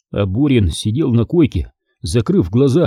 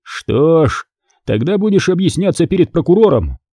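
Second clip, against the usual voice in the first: hard, higher warning; harsh; 6 semitones higher than usual. Acted. Commander warns the captain harshly. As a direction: threaten him coldly. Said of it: "жёстко произнёс Петровский".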